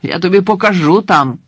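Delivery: threatening guard. Acted. The guard threatens the mourners, angry and loud. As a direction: bark the warning at the crowd.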